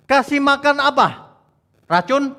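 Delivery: high, loud, slow sarcastic question; mock the idea of feeding poison. Preacher mocking bad shepherds to the congregation, sarcastic and loud.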